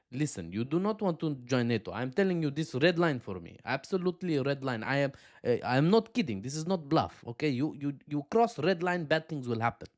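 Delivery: stern warning in a put-on Russian accent; mock Russian accent. Russia warning Ukraine off NATO, mock Russian accent. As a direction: lay down the red line, Russian-accented.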